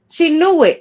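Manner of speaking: "knew" hit high and loud; emphatic. Real, not acted. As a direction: stress on knew. Emphatic claim.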